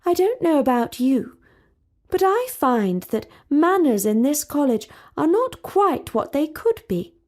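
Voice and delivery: a hint of a proper princess, mildly disapproving; lightly voiced prim princess; haughty princess. Talia remarks on manners.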